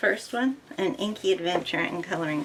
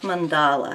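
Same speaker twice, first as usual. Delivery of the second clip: mandala said man-DA-la, middle syllable accented; 3 semitones lower than usual. Guessing how mandala is pronounced correctly: stress on da in mandala. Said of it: "with putting the accent on the da in the middle".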